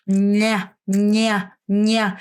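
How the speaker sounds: "냐" with the tongue sweeping the palate; repeated palatal "냐"; palatal drill. Shown as a demonstration. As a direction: drill "냐" with the tongue brushing the roof of the mouth. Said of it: "혀가 이렇게 천장을 이렇게 쓸면서".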